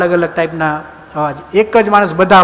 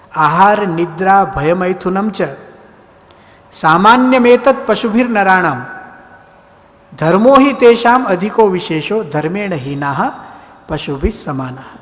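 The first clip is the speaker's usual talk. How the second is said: Sanskrit verse recitation. Acted.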